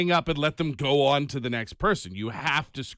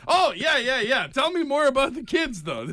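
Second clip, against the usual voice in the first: higher, louder fake enthusiasm; mock eager interest; 10 semitones higher, 3 dB louder than usual. Host faking eager interest to keep the scammer talking. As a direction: play along, overly keen. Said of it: "I'm like".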